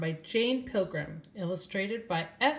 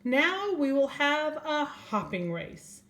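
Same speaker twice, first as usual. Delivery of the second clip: higher, slower announcing voice; owl announcing surprise; 9 semitones higher, 4 dB louder, slower than usual. Acted. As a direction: unveil the surprise to everyone.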